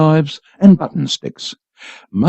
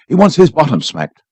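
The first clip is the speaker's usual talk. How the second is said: snarled. A narrator's reading. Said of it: "snarled Father".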